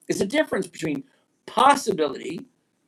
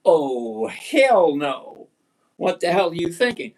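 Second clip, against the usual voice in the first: mock outrage; 4 dB louder, slower than usual. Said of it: "this is the part where I say".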